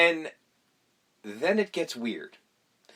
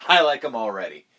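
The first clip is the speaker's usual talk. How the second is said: Joker impression; 4 semitones lower than usual. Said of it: "he's just like".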